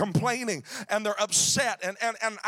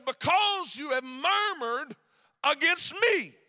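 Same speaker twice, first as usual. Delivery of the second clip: voice of God; 3 semitones higher, slower than usual. Retold or imitated. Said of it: "he said".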